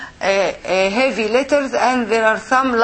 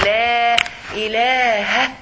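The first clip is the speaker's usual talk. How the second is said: imitating the adhan; 2 semitones lower than usual. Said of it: "The sheikh is saying".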